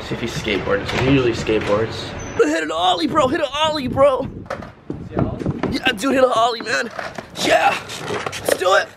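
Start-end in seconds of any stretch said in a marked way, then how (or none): 2.4-6.9 high excited urging; hyped cheering. Real, not acted. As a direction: hype him up to land it. Urging friend to skateboard.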